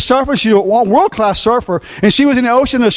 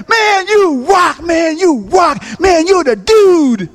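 beach crowd cheer; 6 semitones higher, slower than usual. Retold or imitated. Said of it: "everyone said".

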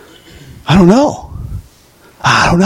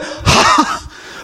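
giant's laugh; 5 dB quieter than usual. Acted. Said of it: "the minute he went".

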